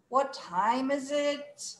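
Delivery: sigh, then very slow, dragged question; really annoyed. Shown as a demonstration. Teacher modelling again for students, really annoyed. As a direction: sigh and stretch every word in irritation. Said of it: "Can you look really annoyed?".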